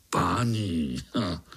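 low, scornful repeat of "Páni"; mocking echo. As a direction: sneer back the word "Páni" with a snort. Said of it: "mi říká páni".

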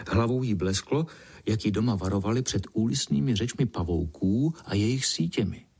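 ordinary delivery

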